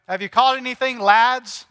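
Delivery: a hint of Scottish, calling out to the lads; mock Scottish fisherman hail; Scottish accent shouted across the lake; light Scottish accent. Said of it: "That sounds so Scottish".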